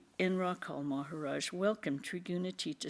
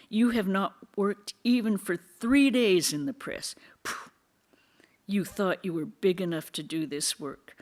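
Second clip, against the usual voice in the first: mocking nasal whine; 2 semitones higher, 5 dB louder than usual. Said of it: "They say in a nasal voice".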